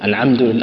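"العمد" with ain in place of ha; ain for ha imitated. Teacher mimicking a wrong reading of "العمد لل-". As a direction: say "العمد" forcing an ain where the ha belongs. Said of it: "يجعل فيها شيء من العين".

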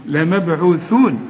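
لمبعوثون with the tongue out on the tha; slow recited demo. Shown as a demonstration. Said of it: "طلع لسانك فيها".

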